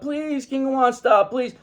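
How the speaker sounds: high, pleading mock wail; mock crying plea. Riders on the ride beg the King of Wands, high mock pleading. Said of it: "they're crying and they're screaming".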